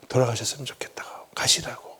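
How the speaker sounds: whispered, breathy plea to leave; whispered request to go; hushed reply. Retold or imitated. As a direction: drop to a whisper as if pleading quietly. Quoting what he told the mob.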